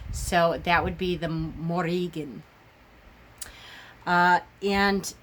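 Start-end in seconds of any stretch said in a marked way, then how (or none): 1.3-2.4 Morrigan with a throaty G and an almost rolled R; Old Irish Gaelic. Shown as a demonstration. Teaching followers the Old Gaelic name, throaty and rolled. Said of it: "There's a lot of throat work with the Gaelic".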